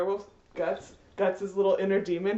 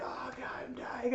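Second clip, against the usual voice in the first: mock dying groan; 13 dB quieter than usual. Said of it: "he's just like".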